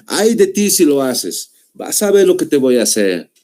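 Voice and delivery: a mother's mild mock threat; mock-warn a child what's coming; threatening. Shown as a demonstration. Teacher plays a mother scolding her child, mildly threatening. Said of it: "te está amenazando".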